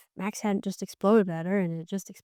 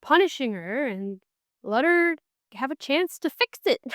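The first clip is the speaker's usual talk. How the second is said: higher, pleading frustration at the book; exasperated reader; 7 semitones higher than usual. Retold or imitated. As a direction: beg the characters to just explain. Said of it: "just as the reader, I was like".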